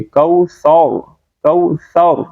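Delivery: "کوثر" slow, ending in a thick rounded r; heavy final r. Shown as a demonstration. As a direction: fill out the r of "کوثر". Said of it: "را کو موٹا پڑھیں گے".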